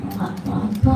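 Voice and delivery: soft, timid little answer; timid reply. Acted. Child hiding the bullying from teacher, soft timid reply. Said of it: "Nggak berani Piko".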